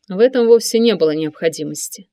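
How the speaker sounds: ordinary delivery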